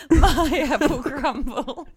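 high, loud, slow squawk through laughter; mimicked squawk. Host repeats the guest's punchline, laughing mock squawk. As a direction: gleefully echo the comic squawk.

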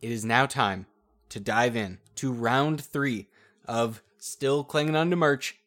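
booming ring announcer intro; grand entrance announcement. Pretend. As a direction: hype up the crowd like an arena MC. Announcer opening the tournament round.

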